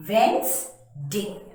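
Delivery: Wednesday slow, WENZ-day; drawn out Wednesday as wenz-day; correct pronunciation. Shown as a demonstration. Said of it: "W E N Z D A Y".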